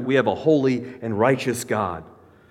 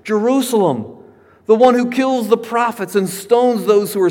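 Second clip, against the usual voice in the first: weeping tone. Acted. Preacher voicing Jesus lamenting over Jerusalem, mournful weeping tone. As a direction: grieve over the city like a broken-hearted parent. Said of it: "notice his weeping tone in the next verse".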